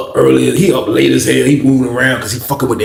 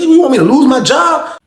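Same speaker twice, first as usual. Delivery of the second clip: shouted at the guard, pitch jumping up; angry yell; 12 semitones higher, 3 dB louder than usual. Retold or imitated. Inmate yelling at the guard over a missing tray, angry shout. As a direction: yell back at the guard in outrage.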